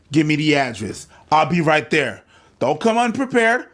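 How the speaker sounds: usual speaking voice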